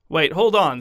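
flustered teacher calling wait, hold on. Acted. Daycare teacher flustered as parents pull son out.

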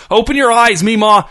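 high, loud, furious order; screamed. A narrator's reading. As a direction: yell it like a switch just flipped. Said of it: "he screamed".

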